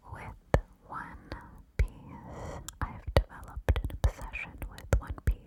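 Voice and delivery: secret whisper on the right; whisper in right ear. Shown as a demonstration. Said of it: "This next secret I'm going to whisper in your right ear".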